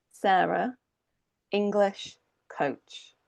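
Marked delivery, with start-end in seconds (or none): 1.5-3.2 slow, with "English" and "coach" both given full weight; stressed content words. Shown as a demonstration. Coach listing content words, slow and stressed. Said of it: "it's usually the nouns and the ad".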